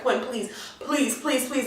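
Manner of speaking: pleading Liv. Retold or imitated. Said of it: "She's just like".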